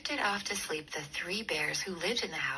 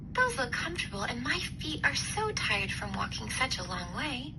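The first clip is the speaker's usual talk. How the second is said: put-on higher tired little girl; a girl with sore feet; tired girl eyeing the chairs; Goldilocks voice; 5 semitones higher than usual.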